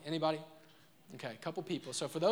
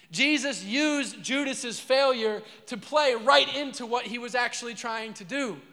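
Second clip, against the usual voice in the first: higher, louder, slow build; emphatic preaching; 4 semitones higher, 6 dB louder, slower than usual. Acted. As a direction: drive each word home slowly. Preaching climax.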